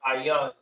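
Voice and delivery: "ayan" as eye-YAHN; pronounced "ayan". Shown as a demonstration. Teacher gives the word to repeat, sounding out "ayan". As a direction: model "ayan" in two syllables. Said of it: "that's pronounced".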